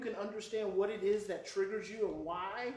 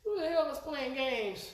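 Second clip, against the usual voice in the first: retold anger; 6 semitones higher than usual. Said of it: "first I was mad".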